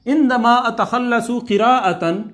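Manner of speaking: عندما اتخلص spoken slowly, each word drawn out; slow drill. Shown as a demonstration. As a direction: model the phrase slowly for repetition. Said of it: "lesson drill, slow model".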